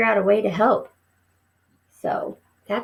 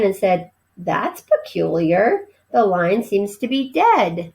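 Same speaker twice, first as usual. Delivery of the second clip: animated read-aloud with voiced characters; story reading. A narrator's reading. Teacher reading a novel to her class, lively storytelling. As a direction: read the chapter to the class with expression.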